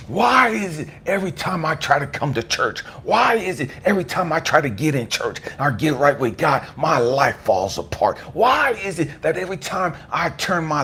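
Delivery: anguished questioning, each why hit hard; angry at God. Retold or imitated. Churchgoer whose life keeps falling apart questioning God, angry and anguished. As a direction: demand answers, dragging out the last words. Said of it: "I'm angry at God all over again".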